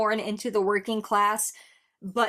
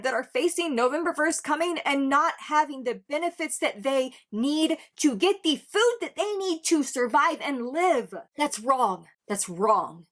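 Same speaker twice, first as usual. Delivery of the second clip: impassioned, emphatic plea with higher pitch; soapbox rant; 3 semitones higher than usual. Real, not acted. Reactor arguing everyone deserves food, impassioned soapbox rant. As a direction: drive each point home, stretching key words. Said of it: "go down that soapbox".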